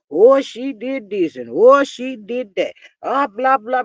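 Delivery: slow, drawn-out mocking whine; mock whining. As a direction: parody the complainers, stretching each oh. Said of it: "whining and crying all the time".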